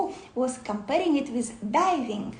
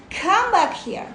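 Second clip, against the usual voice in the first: higher, louder coaxing call, like calling a pet back; gently lovingly; 6 semitones higher, 5 dB louder than usual. Shown as a demonstration. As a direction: call the wandering mind home kindly. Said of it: "gently, lovingly say".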